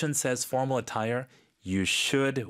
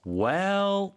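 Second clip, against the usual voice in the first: whisper; 7 semitones higher than usual. Real, not acted. Tutor slips into a whisper.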